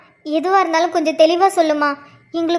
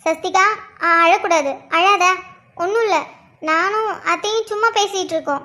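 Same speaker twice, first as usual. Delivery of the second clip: soothing. Acted. Woman tells child they are just talking, soothing.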